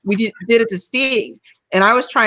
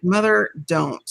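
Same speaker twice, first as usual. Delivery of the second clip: slow warning; slower than usual. Retold or imitated. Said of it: "And I'm like".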